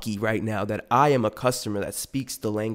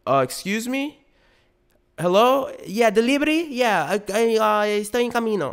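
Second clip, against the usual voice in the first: mock phone exchange; 10 semitones higher than usual. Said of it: "I'm like".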